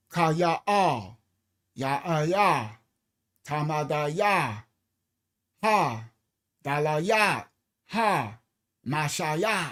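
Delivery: Ka ya a, each syllable slow and apart. Shown as a demonstration. Proving every syllable is ah, slowly spaced. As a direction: break it down, ka ya a, slowly. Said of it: "All I heard was ah".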